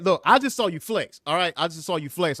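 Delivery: high, excited hype; hyping up. Real, not acted. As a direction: hype him up for flexing. Hyping up the friend.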